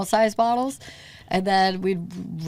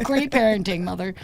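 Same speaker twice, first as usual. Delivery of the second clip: sarcastic. Retold or imitated. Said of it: "I'm like".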